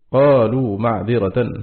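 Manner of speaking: معذرة read with fatha at the end, slowly; slow demo of معذرة with fatha; slow recited demo. Shown as a demonstration. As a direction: say قالوا معذرة slowly, ending ma'dhiratan. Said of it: "بالنصب، والباقون بالرفع".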